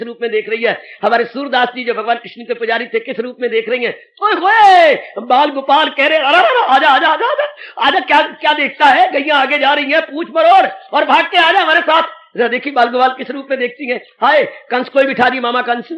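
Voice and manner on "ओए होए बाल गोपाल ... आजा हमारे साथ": raised, urgent playful calls; cowherd boys' eager calling. Acted. Cowherd boys urging a friend to run along, eager calling. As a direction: call a playmate to hurry along.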